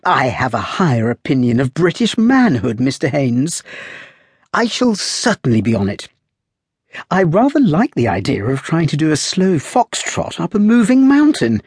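put-on light, high, lively young lady; playful high girl's voice, teasing; young woman's voice. A narrator's reading. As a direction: raise the voice into a spirited young woman. Girl voiced in story.

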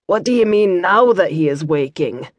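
mild Scots demand. Acted. Brother Matthew questions Kira, mildly demanding. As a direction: press her for an answer. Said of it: "demanded Brother Matthew".

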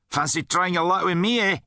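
high, defiant challenge; demanding challenge. A narrator's reading. Rudd challenges the guard after shoving him, demanding. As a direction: dare him to take you on. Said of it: "he demanded".

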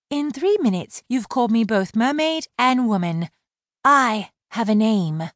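high-voiced mermaid scolding his rudeness; indignant mermaid. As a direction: set him straight, firmly. Laurel protesting.

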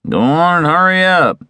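high, insistent urging; testy creditor calling out; impatient moneylender. A narrator's reading.

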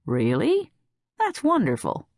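lifting to a high, delighted "wonderful"; brightened. A narrator's reading. Judith hears she'll share the hospital, brightening. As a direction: perk up at the good news. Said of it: "Judith brightened".

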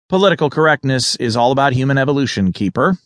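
quick, pleased with himself; a mildly smug lecture, a touch quick; lightly proud politician's boast; said proudly. Acted. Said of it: "he said proudly".

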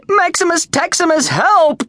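high frantic yelp of the name; desperate cry for help. A narrator's reading. Dying gladiator calls the trainer, frantic high cry. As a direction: call out for rescue.

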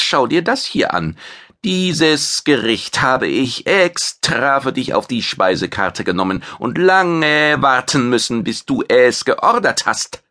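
a vain chef bragging about his fame; proud alien chef. Acted. Maitre presents the dish.

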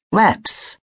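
friendly greeting. A narrator's reading. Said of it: "sprach ihn der Meeresflügler freundlich an".

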